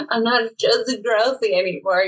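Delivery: lisping Drew Barrymore line; Drew Barrymore impression. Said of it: "You do a Drew Barrymore?".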